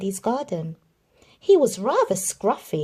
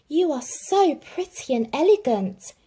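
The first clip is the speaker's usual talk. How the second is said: cooing; 7 semitones higher than usual. Acted. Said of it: "cooed Darling".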